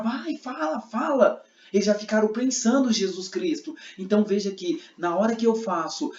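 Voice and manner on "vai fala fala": high-pitched, pushy urging; insistent demand. Shown as a demonstration. Men pressing Jesus for an answer, insistent. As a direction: egg someone on to speak, voice pitched up. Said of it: "agora vocês ficam e ficam".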